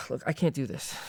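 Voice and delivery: sigh, then a quick fed-up refusal; frustrated refusal. Acted. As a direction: blurt it out, worn down and impatient. Preclear resists the session.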